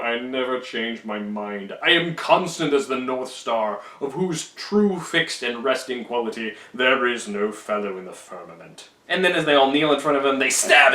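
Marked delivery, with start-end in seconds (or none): 0.0-8.9 slow, lordly declamation; grandiose Caesar. Retold or imitated. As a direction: intone it like an emperor above all. Caesar proclaims his constancy.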